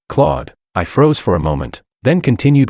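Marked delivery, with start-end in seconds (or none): 0.1-0.5 high, sharp call of a name; piercing cry. A narrator's reading. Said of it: "I heard a piercing cry".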